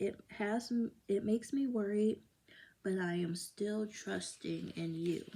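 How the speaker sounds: ordinary delivery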